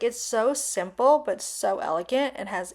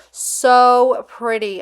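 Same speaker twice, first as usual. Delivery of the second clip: excited; 3 semitones higher, 8 dB louder, much slower than usual. Real, not acted. Admiring the ring.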